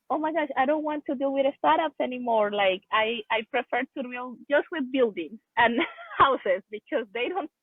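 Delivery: playful retold fed-up complaint; retold exasperation. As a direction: protest lightly, voice lifted, laughing midway. Retelling her past exasperation, laughing.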